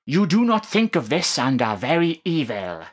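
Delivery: preacher voice. Acted. Vlogger reads the hate message, preaching loudly. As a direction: condemn them from the pulpit. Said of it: "I'm doing my best preacher voice here".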